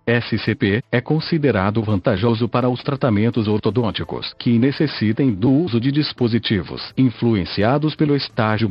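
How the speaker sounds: robotic text-to-speech voice. Real, not acted. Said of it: "falo através desta voz sintetizada".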